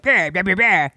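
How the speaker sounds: garbled back-of-the-throat Scottish imitation; mock a thick, incomprehensible Scottish accent; unintelligible Scottish. Niece imitating her Scottish relative handing over coins, garbled Scottish. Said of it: "in the back of his throat kinda talking".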